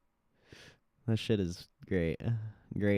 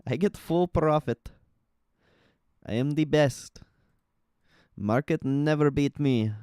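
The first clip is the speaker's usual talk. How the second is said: cocky trader; 5 semitones higher than usual. Retold or imitated. Continues cocky trader impression.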